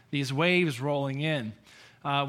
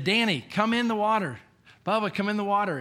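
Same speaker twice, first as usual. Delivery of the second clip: put-on higher, louder call to a child across the surf; 6 semitones higher, 4 dB louder than usual. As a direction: coax the boy into the water from a distance. Father calling son into water.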